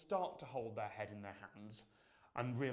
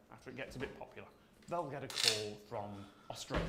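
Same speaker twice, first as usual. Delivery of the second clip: ordinary talk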